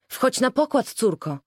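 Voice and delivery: high, urgent plea to board; desperate cry. A narrator's reading. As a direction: cry out in despair to her daughter. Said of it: "krzyknęła desperacko Malmfrid". (rozpaczliwe wołanie)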